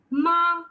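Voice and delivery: "ma" thrown out from a high start; fourth-tone "ma", high and thrown away; throw-out fourth tone. Shown as a demonstration. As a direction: toss "ma" out in one short push, starting high. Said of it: "Just throw it out".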